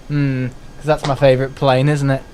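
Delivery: dry sarcastic aside; deadpan mock praise. Real, not acted.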